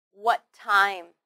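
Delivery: "What time" with one shared T; linked T sound. Shown as a demonstration. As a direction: join "What" into "time" on a single T. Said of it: "only need to say one t sound".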